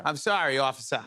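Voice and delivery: lightly put-on Boston accent; fake Boston accent. Suspect apologizing to a cop, fake Boston accent. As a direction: answer with a faked Boston accent. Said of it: "I'll fake do a Boston accent".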